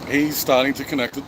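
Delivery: talking through hiccups; hiccuping between words. Real, not acted. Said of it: "I've got the hiccups still".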